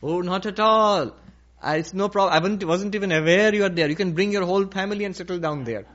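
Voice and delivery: lightly voiced hospitable bull; big easygoing bull. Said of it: "a big one".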